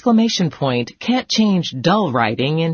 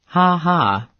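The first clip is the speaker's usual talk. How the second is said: mock laugh. Shown as a demonstration. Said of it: "like laughing at your own joke".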